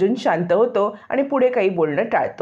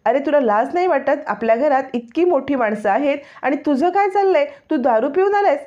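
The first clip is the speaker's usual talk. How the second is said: put-on high-pitched scolding of a drunk brother; angry shout; 5 semitones higher than usual. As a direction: tell him off, raised and furious. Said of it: "Arjun ओरडतो".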